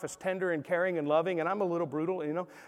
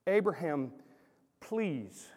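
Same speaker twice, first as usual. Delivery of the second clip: pleading entreaty; 4 semitones lower, 7 dB quieter, much slower than usual. Shown as a demonstration. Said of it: "an entreaty word".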